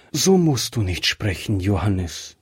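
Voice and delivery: Johannes falling low and heavy, close to weeping; wife, near tears, pleads with her dying husband. Acted. Wife pleads sadly, Johannes sinking low. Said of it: "und fing an zu weinen".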